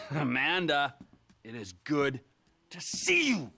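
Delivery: mocking. Mocking greeting to Amanda.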